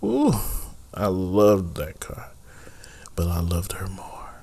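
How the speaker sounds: breathy lament over a lost car; mock-tragic whisper. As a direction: whisper it like a tender loss. Mock-sentimental whisper about his car.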